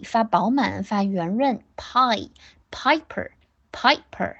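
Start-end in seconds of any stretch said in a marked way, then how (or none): 1.8-4.4 Pie and Piper drawn out slowly with a full round I; full round diphthong. Shown as a demonstration. Teacher showing pupils a full rounded I, slowly. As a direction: stretch the pie sound rich and round.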